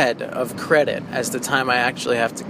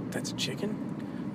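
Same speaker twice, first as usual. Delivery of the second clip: turkey impression; 7 semitones higher, 13 dB quieter than usual. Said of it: "That's my turkey impression".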